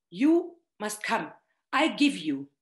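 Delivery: firm, direct invitation that brooks no refusal; mild retold insistence, no frills; very straight. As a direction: state it plainly, leave no room to say no. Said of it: "he says it in a very, very straight way".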